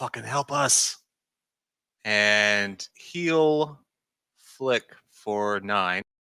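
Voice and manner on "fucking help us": soft, hushed, pleading whisper. Speaking in character during a turn of the game: whispering. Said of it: "I whisper".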